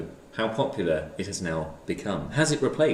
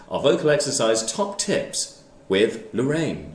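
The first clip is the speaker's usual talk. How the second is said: normal talking voice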